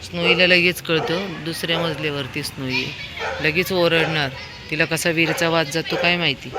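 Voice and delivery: usual speaking voice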